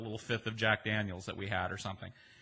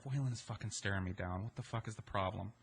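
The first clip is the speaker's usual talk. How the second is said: quiet muttered thought to himself; inner thought, muttered; 2 semitones lower, 6 dB quieter than usual. Retold or imitated. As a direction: keep it under your breath, annoyed.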